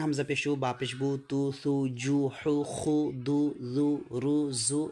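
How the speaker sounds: even, level-pitched chain of "oo" syllables; steady drill reading of short-u syllables; model letter recitation. Shown as a demonstration. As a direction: recite each syllable evenly for students to copy. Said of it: "এভাবে".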